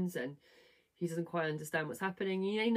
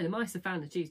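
ordinary talk

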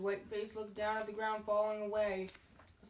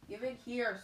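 a bit higher and louder demand; mild mock yell; 3 semitones higher, 3 dB louder than usual. Harry yells at the bully to hand it over, mild mock yell. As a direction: raise it to a half-hearted yell. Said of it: "Harry yelled".

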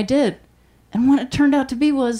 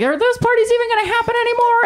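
wondering aloud; 9 semitones higher, faster than usual. Retold or imitated. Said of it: "I was like".

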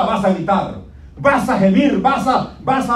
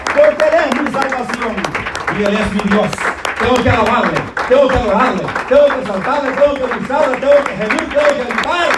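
full-force preaching; 3 semitones higher than usual. Acted. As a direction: drive the sermon home with fire.

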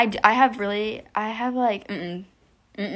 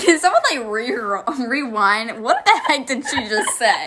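laughing; 7 dB louder, slower than usual. Real, not acted. Friend laughing in disbelief.

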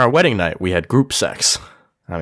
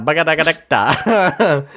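laughing gibberish; 2 semitones higher, slower than usual. Retold or imitated. Mock nonsense word with laugh.

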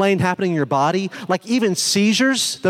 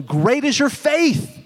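high, drawn-out proclamation; quoting an amazed, slow exclamation; exclaimed praise; 7 semitones higher, much slower than usual. Retold or imitated. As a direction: lift the pitch and stretch out the praise. Jesus's exclamation in retold scripture.

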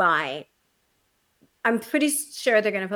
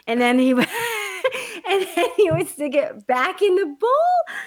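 laughing disgust; 11 semitones higher, 4 dB louder than usual. Real, not acted. Laughing disgust telling story.

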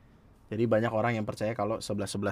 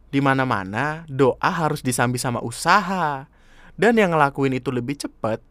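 ordinary talk

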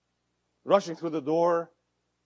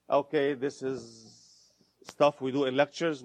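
skeptic. Retold or imitated. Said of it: "for the skeptics here".

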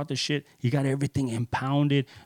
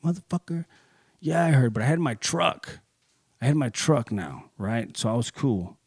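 defiant; 2 semitones higher than usual. Retold or imitated. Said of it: "Like, just".

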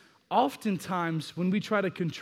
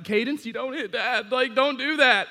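stern scolding; 6 semitones higher, 4 dB louder than usual. Retold or imitated. Dad scolding toddler for hitting.

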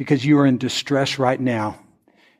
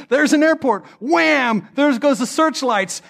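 much higher, thrilled announcement; excited high telling; 11 semitones higher, slower than usual. Retold or imitated. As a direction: tell it like a sudden miracle. Retelling the sudden rescue.

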